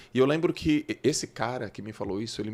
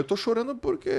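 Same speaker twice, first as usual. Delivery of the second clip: higher, mock-tearful child; imitating crying boy; 12 semitones higher than usual. Boy telling his coach why he cries, mock-tearful. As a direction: replay his younger self sobbing, half-mocking. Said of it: "eu falando chorando".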